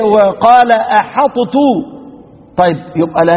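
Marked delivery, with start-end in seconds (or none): 0.0-1.6 أحطت drawn out slowly; slow recitation demo. Shown as a demonstration. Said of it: "وإيه".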